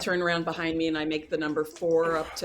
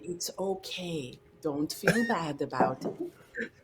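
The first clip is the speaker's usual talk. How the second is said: slow, soothing counsellor tone; calm someone down gently; therapist voice; slower than usual. Acted. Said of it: "I'm trying my therapist voice again".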